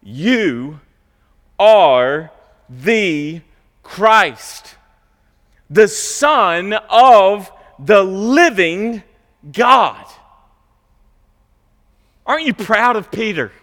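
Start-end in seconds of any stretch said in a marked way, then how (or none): 0.0-10.0 bold confession. Acted. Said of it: "what does Peter say".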